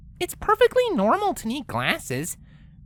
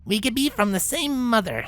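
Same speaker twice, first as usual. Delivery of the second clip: mock mayor voice; 4 semitones lower than usual. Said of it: "said the mayor, looking in the mirror".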